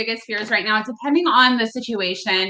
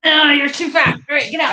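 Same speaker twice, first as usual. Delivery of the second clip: cooing at a pet; 4 semitones higher than usual. Real, not acted. Cooing over her dog.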